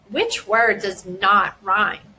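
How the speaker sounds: put-on slow, deliberate question to a child; slow teacher question. Shown as a demonstration. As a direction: ask the child slowly and clearly. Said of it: "An example may look like this".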